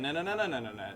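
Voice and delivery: "na, na, na" sung upward, each one climbing; rising inflection demo. Shown as a demonstration. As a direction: show the upward inflection on nonsense syllables. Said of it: "you tend to go up in your inflections".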